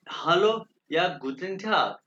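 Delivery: हेलो या गुटन टाग said slowly and clearly; slow demonstration. Shown as a demonstration. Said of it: "गुटन टाग यानी कि good day".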